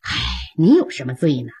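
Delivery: an emperor soothing his angry sworn brother with a smile; lightly voiced placating emperor; smiling appeasement. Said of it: "赵匡胤满脸堆笑".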